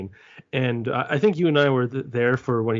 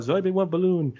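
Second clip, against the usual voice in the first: dopey voice; 6 semitones higher than usual. Retold or imitated. Quoting dumb joke line.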